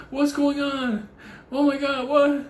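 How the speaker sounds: high, startled vet voice; shocked vet. Retold or imitated. Vet shocked at the mangled owner, high startled voice. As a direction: gasp it out as the alarmed vet. Vet reacting in retold story.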